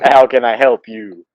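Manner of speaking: lightly voiced old man at the door; old man's voice. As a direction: mimic how he talked, lightly. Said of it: "he talked".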